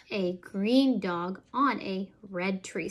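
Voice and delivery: slow, lilting picture-book read; reading to children. Acted. Parent reading a counting book to a toddler, slow and sing-song. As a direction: draw the little listener into each page.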